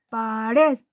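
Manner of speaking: Pared with the weight on red; stress on last syllable. Shown as a demonstration. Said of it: "En la última sílaba".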